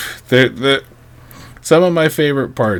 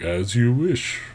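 lightly voiced Vader; 6 dB quieter, slower than usual. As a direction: murmur it like an obedient Vader. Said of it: "He's like".

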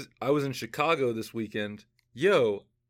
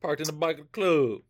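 put-on intense Southern accent. Host trying out the dictionary's example sentence, intense Southern accent. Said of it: "a very intense Southern accent".

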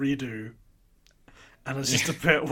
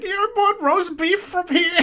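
much higher, slow disbelief; high incredulous voice; 7 dB louder than usual. Retold or imitated. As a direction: squeak it out in disbelief. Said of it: "he's like".

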